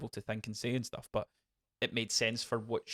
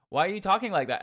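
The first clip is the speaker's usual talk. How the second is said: puzzled; 8 semitones higher, 6 dB louder, faster than usual. Retold or imitated. Retelling Rocky's puzzled question.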